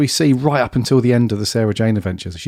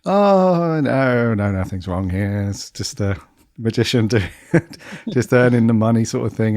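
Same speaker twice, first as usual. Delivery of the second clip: sheepish. Acted. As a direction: lightly imitate someone sheepishly covering up. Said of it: "he played that kind of sheepish".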